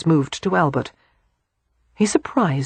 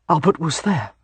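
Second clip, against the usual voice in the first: different voice. Acted. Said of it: "Bennett said in a different voice".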